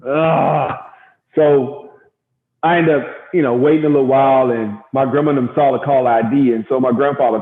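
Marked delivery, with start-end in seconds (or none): 0.1-0.9 exasperated groan. Retold or imitated. Retold frustration, nobody answering phone.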